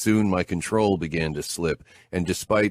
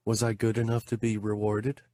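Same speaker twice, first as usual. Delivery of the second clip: Anna's voice; 6 semitones higher than usual. A narrator's reading. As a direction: voice the woman, coy and eager. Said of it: "Anna asked".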